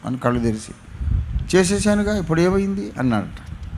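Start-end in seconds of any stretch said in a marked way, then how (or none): 1.6-2.9 higher, mocking "done, so what?"; smug jeer at the preacher; pitched-up scoffing retort; sarcastic. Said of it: "వెటకారంగా అన్నాడు".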